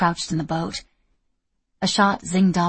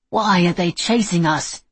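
complaining; 5 dB louder than usual. Acted. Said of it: "he complained".

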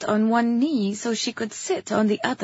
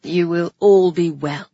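loud, lowered royal assurance; loud public voice; 4 semitones lower, 6 dB louder than usual. A narrator's reading. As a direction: reassure the crowd as their king. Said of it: "He was still using his loud voice".

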